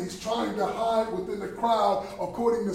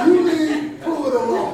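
loud, slow, higher-pitched command; drawn-out, raised-voice warning; firm coach's order; 6 semitones higher, 8 dB louder than usual. Retold or imitated. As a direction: lay down the order loudly and slowly. Coach's order, repeated with force.

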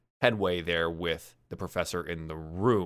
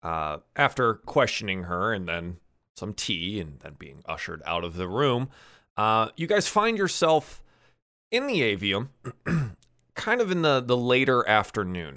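game master scene-setting. Acted. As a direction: set the scene in measured, suspenseful phrases.

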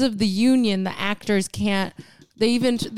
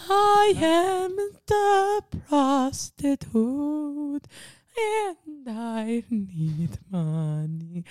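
slow, overacted faulty accent; failed American accent; 6 semitones higher, much slower than usual. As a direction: imitate a British actress faking an American accent. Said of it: "I keep doing an accent".

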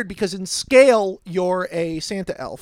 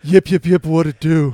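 loud callout; 5 semitones lower, 9 dB louder than usual. Pretend. Joking greeting callout.

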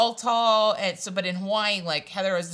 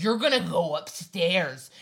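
slow, emphatic mock command; stern sister's order; 4 dB louder than usual. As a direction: order him like a bossy older sister. Sister orders guard upstairs.

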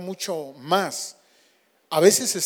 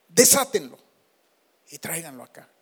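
"Desátenlo" repeated louder; louder command; 3 semitones lower than usual. Acted. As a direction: say it again, stronger. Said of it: "una palabra de autoridad". (orden más fuerte)

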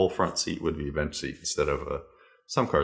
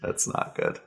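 soft unvoiced whisper; 13 semitones lower, 6 dB quieter than usual. Real, not acted. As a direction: whisper it, half joking. Whispering about silent brother.

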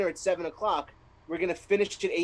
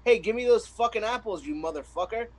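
cartoon pony voice; 5 semitones higher than usual. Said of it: "a My Little Pony show going".

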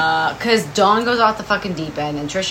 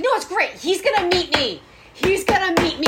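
mock giddy Dawn; 8 semitones higher, faster than usual. Voicing deluded Dawn.

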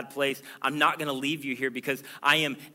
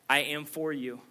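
gentle promise. Acted. Same promise repeated softly.

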